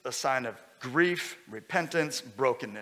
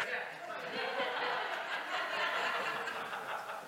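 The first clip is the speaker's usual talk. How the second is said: laugh; 10 dB quieter than usual. Real, not acted. Laughing along with the congregation.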